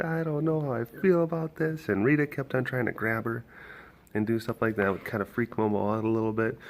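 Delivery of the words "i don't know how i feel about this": voicing the baby lemur.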